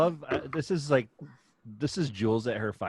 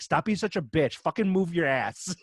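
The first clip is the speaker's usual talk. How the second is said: barking at a teammate in jest; gaming yell; 4 semitones higher, 4 dB louder than usual. Retold or imitated. Parent yelling at son during a cooking game, mock. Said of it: "I tell Cole".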